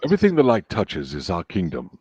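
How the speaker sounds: deep lion-king father voice; low, stately lesson to a young heir; James Earl Jones. Acted. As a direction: speak low like a regal father. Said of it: "Lion King".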